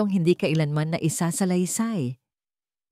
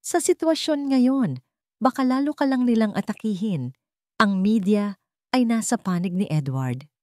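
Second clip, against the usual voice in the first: worried warning; 5 semitones higher than usual. Acted. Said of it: "Nag-aalalang tanong ni Sofia".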